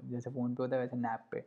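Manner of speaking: नैप पे as nap plus pe, like फ़ोन पे; say it nappe. Shown as a demonstration. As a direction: repeat नैप पे in two beats, nap-pe, rhyming with फ़ोन पे. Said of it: "ऐसे pronounce कर लो इसको". (नैप पे को दो हिस्सों में, नैप-पे बोलो)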